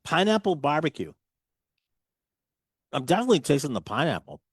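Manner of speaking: chewing while talking; mouth full. Real, not acted. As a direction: talk through a mouthful of chips. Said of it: "talking with your mouth full and chewing".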